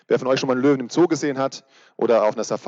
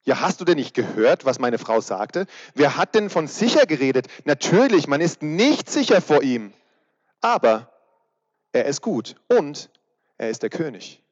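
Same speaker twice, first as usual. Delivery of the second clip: lightly voiced beaver. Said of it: "wiederholte der Biber".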